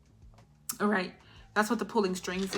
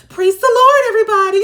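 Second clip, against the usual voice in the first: high, loud, sugary put-on greeting; fake church greeting; 12 semitones higher, 18 dB louder, faster than usual. The ex putting on a smile for everybody, high and loud. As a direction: beam it out like a fake-nice churchgoer. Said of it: "And put that smile on".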